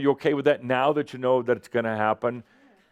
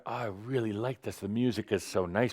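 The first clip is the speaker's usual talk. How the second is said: dreamy contentment; 7 dB quieter than usual. Retold or imitated.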